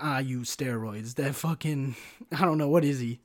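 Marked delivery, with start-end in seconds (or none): 0.0-1.1 put-on slow, heavy German-style accent; big German guy's accent. Big gym guy admitting steroids, rough German accent. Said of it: "that big guy who's like".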